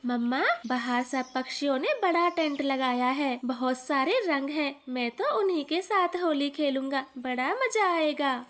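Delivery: put-on a light child's voice, eager; little boy Kuku. Little son tells his mother about the tent, eager child voice. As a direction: play the excited little son.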